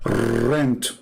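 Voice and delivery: Rent with a rolled Russian R; Russian accent. Retold or imitated. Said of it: "This is how they say it in Russia".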